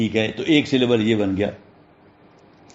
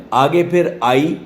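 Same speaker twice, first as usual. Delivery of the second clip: usual speaking voice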